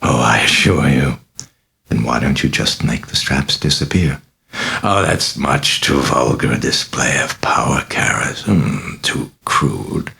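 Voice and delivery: a mocking, sinister possessed girl, purring; a lightly voiced demon, amused and taunting; sly demon voice. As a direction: toy with the priest, silky and sly.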